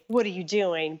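easygoing, unraised question; calmer mild boss. Retold or imitated. Photographer now gently questioning his assistant, calm. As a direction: ask it lightly, half laughing it off. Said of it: "calming down".

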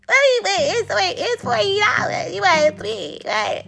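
high, stunned wait-what; outraged disbelief. Real, not acted. Comedian reacting to splitting forty dollars, high outraged disbelief. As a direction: rise up in shocked disbelief.

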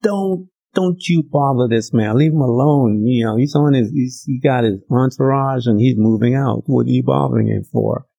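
crowd hushing the blind men; scolding crowd. Retold or imitated. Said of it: "The crowd began to scream at them".

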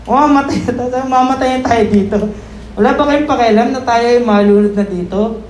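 panicked plea. Retold or imitated. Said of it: "Tapos sabihin".

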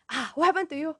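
grandfather's mock scolding, high Malaysian-accented start. Grandfather to crying grandchild, Malaysian-accented mock scolding. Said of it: "My Malaysian accent come out instantly".

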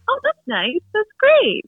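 very high, airy that's nice; parents' mild reaction. Retold or imitated. Parents hearing the big news, very high and mild. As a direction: chirp it like an unimpressed parent. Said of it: "they were even like".

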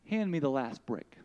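quiet loving voice of the Lord; the Lord, gentle and hushed. Acted. The Lord comforting the weary mother, softly.

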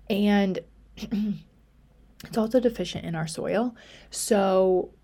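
throat catching, words snagging; choking. Real, not acted. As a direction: talk through a tickle in the throat. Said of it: "Sorry, I'm, like, choking".

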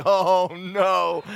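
high, loud panicked oh no; mock terrified. Preacher as a boy hearing dad on the creaky board, mock panic. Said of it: "and you would just know, like".

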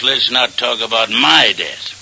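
"my" pressed with a falling tune; stress on my. Acted. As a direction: lean on "my" to correct her. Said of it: "What I meant was".

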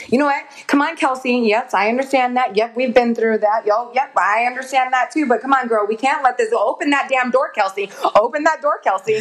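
a pumped-up nudge to yourself; mild pep talk to self. Pretend. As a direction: coach yourself through the fear.

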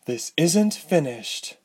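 high, cross retort; smooth but cross. A narrator's reading. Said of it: "her smooth voice cross".

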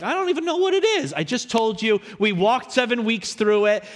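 high, fast, flustered excuse; clueless churchgoer. Pretend. A congregant caught unprepared, high and rushed. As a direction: brush off the question like someone who never listened. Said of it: "I don't want none of y'all to be like".

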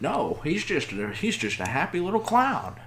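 high, mocking voice of gullible viewers; sarcastic mock defense. Podcaster mocking true-crime viewers who take the killer's side, sarcastic. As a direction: scoff at people who think he's innocent.

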